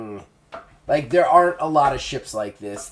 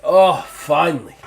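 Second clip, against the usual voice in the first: fat Ned voiced; 4 semitones higher, 9 dB louder than usual. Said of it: "I was like".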